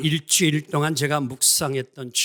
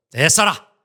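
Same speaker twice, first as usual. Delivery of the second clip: Jeolla dialect; 2 semitones higher, 10 dB louder than usual. Retold or imitated. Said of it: "전라도".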